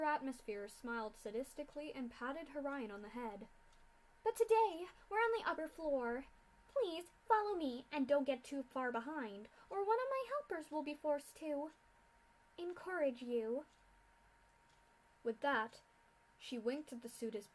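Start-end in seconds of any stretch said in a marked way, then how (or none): 4.2-13.7 loud, higher, contemptuous mad scientist; haughty mad scientist mocking captives; sneering villain. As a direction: look down on these fools. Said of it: "Doctor Atmosphere threatens".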